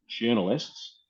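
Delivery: a light Australian lilt on journalists, rising at the end; a playful hint of an Aussie accent. Shown as a demonstration. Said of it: "slipping into my Aussie accent".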